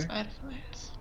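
soft hushed repeat; whispering. Acted. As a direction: keep it down, library voice.

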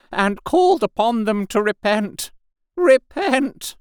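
high, fervent preacher's wail of self-blame; loud ranting repentance. A narrator's reading. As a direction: rant like a half-mad curate calling sinners to repent. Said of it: "he began to talk aloud instead of whispering".

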